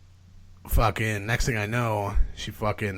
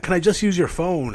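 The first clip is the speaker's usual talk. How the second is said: retold plea; 9 semitones higher, 4 dB louder than usual. Retold begging strangers for phone.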